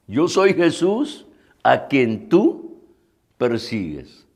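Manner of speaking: slow, hushed restating of the verse; quiet, measured scripture quote with pauses. Retold or imitated. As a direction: let it sink in softly, dropping low at the end. Preacher repeats the verse reflectively.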